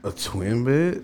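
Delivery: slow, disbelieving question; incredulous. Real, not acted. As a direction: stretch it out in disbelief. Incredulous at friend's suggestion.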